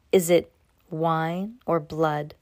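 slow, hesitant and uneasy; nervous. Acted. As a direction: ask it warily, afraid of the answer. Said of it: "asked Cass nervously".

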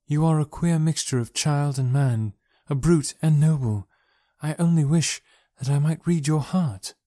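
a princess puzzling over her rescuer, gently; Dejah Thoris voice. Acted. Princess answering John Carter, lightly voiced and earnest.

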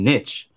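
niche rhyming with pitch; niche with a short vowel, like "nitch"; older pronunciation. Shown as a demonstration. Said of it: "the historical pronunciation has been niche".

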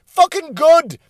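high, loud contemptuous bark; scornful outburst. Real, not acted. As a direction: spit it out with scorn.

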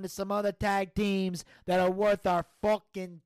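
lightly voiced Italian-American mobster; mob Don holding forth. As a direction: make the boss's case for burying the hatchet.

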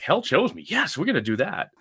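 high, gleeful "Hell chose me"; the author landing on his book title; delighted decision. Retold or imitated. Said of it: "I was like".

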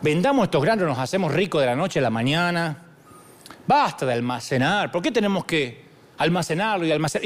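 lightly voiced grumbling Egyptian, a bit low; a hint of a restless worker nagging José; impatient Egyptian. Egyptian worker pushing José to sell the grain, lightly voiced. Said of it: "yo estoy seguro que alguno dijo".

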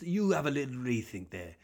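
lightly voiced Welsh teacher telling a pupil off; a hint of a schoolteacher scolding; mock geography teacher. Comic mimics teacher telling a pupil to rethink, light teacherly scold. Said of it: "He sounds like, someone teaching geography".

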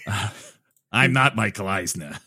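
Swifty LaRue. Retold or imitated. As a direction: toss it off like a cartoon hustler. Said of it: "Swifty LaRue".

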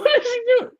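high, disbelieving exclamation; can't believe what the dog's doing; amazed. Real, not acted. Seeing his dog on the chair arm, high amazed exclamation.

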